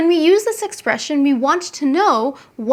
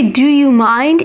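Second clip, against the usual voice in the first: gentler; 6 dB louder than usual. Shown as a demonstration. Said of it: "in a gentler voice".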